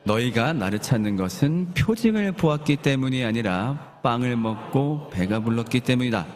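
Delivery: slow, restrained cold answer; a touch of coldness, unhurried; cold reply. Acted. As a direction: read it as a measured, chilly rebuke. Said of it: "예수님이 싸늘하게 응답하십니다".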